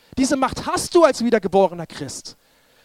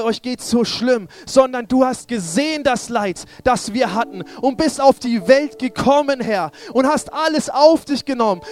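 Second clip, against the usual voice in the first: fervent prayer; 2 semitones higher, slower than usual. Real, not acted. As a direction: cry out thanks to Jesus with rising force. Fervent prayer building in force.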